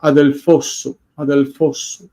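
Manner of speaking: "adelphosu" with the stress moved onto the last syllable; "adelphosu" demonstrated with the final stress; accent shifted to end. Shown as a demonstration. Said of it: "then the accent is".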